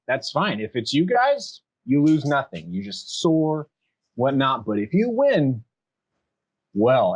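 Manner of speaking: smug, leaving it hanging; tiefling. Acted. Tiefling laying out the fight rules, smug. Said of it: "He says".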